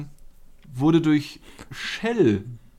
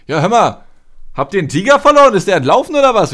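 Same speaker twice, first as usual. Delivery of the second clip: loud caller; 7 semitones higher, 8 dB louder than usual. Retold or imitated. Caller asking about lost tiger.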